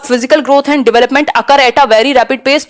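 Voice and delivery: each word of the English option spelled out slowly; slow option read. Acted. Teacher reads answer option one to students, slow and careful. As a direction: read it out like dictation. Rereads option while explaining.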